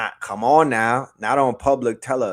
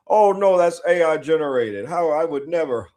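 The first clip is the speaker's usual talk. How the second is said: high, loud, faux-shocked protest; mock innocent denial; 4 semitones higher, 4 dB louder than usual. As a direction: play a villain clutching his pearls. Mocking Homelander's fake denial.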